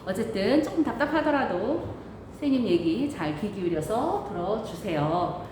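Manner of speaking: muffled behind a mask; talking through a mask; through a face mask. Real, not acted. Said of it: "선생님 지금 마스크를 쓰고 말하니까".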